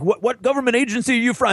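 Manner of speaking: quick mock Texan; baffled Texan. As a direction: fire it off in disbelief. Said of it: "And it's like".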